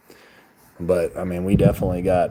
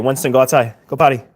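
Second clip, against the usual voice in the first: raised voice, sending a dog out; calling the dog; 4 semitones higher, 5 dB louder, faster than usual. Real, not acted. Streamer tells the dog Winston to go out, calling. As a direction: call out a brisk command to your dog.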